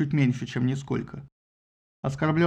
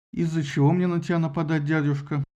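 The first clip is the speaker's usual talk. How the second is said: indifferent. Acted. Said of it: "равнодушно спросил Аполлон".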